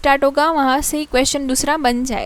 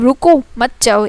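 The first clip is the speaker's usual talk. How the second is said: louder रुको, short break, then मत जाओ; comma after रुको; 6 dB louder than usual. Shown as a demonstration. Teacher repeating the comma example, break after रुको. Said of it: "एक comma में".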